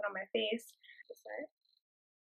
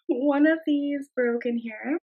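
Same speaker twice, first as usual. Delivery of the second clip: loud, slow, drawn-out dismay; dismayed surprise; 3 semitones higher, 7 dB louder than usual. Real, not acted. Vlogger finds one of the minis broken, dismayed surprise. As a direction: draw it out loudly in disbelief.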